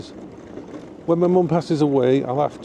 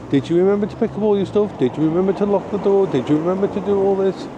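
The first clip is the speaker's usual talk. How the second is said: quick, anxious nagging questions; nagging inner voice; 5 semitones higher, faster than usual. Retold or imitated. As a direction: voice the worried brain. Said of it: "my brain's second guessing me and saying".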